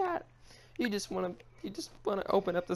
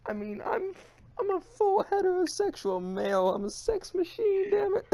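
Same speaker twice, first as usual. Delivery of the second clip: mock crying; 9 semitones higher than usual. Host laugh-crying over the embarrassing fight, hammed-up sobs. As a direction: sob through the laughter. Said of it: "the tears were real".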